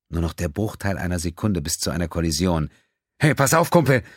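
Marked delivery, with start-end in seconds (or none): 3.2-4.0 higher, louder warning cry; urgent shout. Acted. Pilot warns the ship in the storm, shouting. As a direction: yell the warning over the storm.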